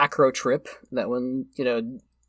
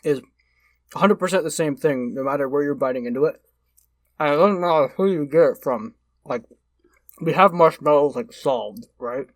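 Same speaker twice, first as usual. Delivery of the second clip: mouth full. Real, not acted. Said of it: "I'm gonna talk with my mouth full".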